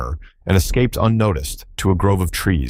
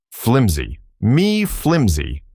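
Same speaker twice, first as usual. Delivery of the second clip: indignant cry, pitch leaping high and slow on "Me flimsy"; outraged cry; 5 semitones higher, much slower than usual. A narrator's reading. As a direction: sputter it back in wounded rage. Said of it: "cried Jack in a rage".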